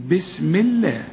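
بسم الله with الله said light and thin; thin, light lam in الله; light Allah. Shown as a demonstration. Teacher shows a light Allah. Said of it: "لأنه قبله مكسور".

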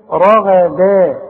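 رغدا with a heavy, full ghayn, drawn out. Shown as a demonstration. Quran teacher models رغدا for the class, heavy ghayn. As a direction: say رغدا slowly, ra and gha thick, da light. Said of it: "مفخمة".

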